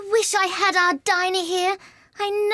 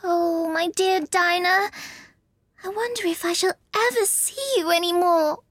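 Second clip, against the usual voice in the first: high, wistful little Alice voice; melancholy. A narrator's reading. Alice alone and missing her cat Dinah, melancholy. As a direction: lament it, slowing sadly on the endearment. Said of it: "in a melancholy tone".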